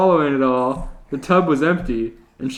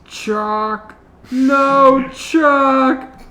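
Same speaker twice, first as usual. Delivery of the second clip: loud high panicked yell; falling scream; 11 semitones higher, 6 dB louder, much slower than usual. Acted. Panty falling out of the tree into mud, yelling. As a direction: cry out as you fall.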